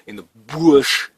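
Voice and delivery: put-on loud, drawn-out Australian crocodile-man accent; thick Australian accent. Prepper jokily imitating the crocodile guy, hammed-up Australian accent. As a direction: put on a broad Australian accent, leaning on BUSH. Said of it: "with my thick Australian accent".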